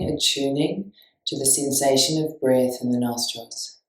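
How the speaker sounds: steady, spacious meditation guidance; guided meditation. Real, not acted. Teacher guiding listeners to notice breath, calm guided meditation. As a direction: lead them into feeling the breath.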